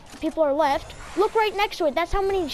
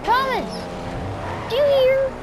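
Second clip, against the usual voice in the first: calling out; 8 semitones higher than usual. Real, not acted. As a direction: shout the name out. Calling out to Thomas.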